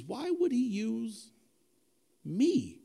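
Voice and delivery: lightly acted self-doubt building to emphatic; disbelieving Peter. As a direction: wonder aloud at being chosen. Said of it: "he's thinking this whole time".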